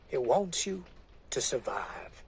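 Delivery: ending in a whisper; hushed. Acted. Preacher telling the woman to survive, falling to a whisper. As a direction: drop to a whisper on the last words.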